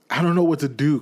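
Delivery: high, loud, giddy half-sob; giddy old man torn between laughter and tears; laughing and crying. Acted. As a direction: laugh and cry in one breath. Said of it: "laughing and crying in the same breath".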